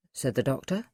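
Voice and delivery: ordinary delivery, nothing marked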